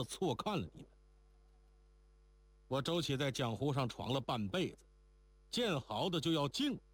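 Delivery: lightly voiced worldly tough man, admiring; emphatic speech with pitch lifting on the praise; 江湖汉子周七. (略带江湖气地由衷称赞)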